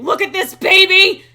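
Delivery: high, very loud cartoon gushing; mock delight. Eggman walking over to a baby, hammed-up delighted gushing.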